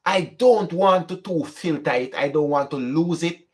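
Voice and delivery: normal talking voice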